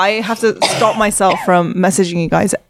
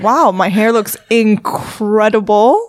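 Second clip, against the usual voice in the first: self-admiring, slow; much slower than usual. Retold or imitated. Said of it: "every day I'm like".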